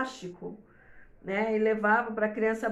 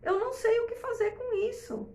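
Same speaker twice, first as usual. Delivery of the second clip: mãe perdida; 12 semitones higher than usual. Retold or imitated. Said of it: "olha e fala assim".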